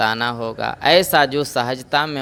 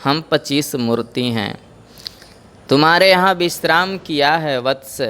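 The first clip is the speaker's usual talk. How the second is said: smiling. Acted. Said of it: "गुरुजी मुस्कुरा करके बोले".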